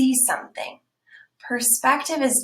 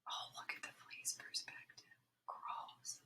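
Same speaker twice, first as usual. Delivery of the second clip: hushed, grossed-out aside; disgusted whisper; 26 dB quieter than usual. Real, not acted. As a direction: whisper it with a shudder. Aside about flea.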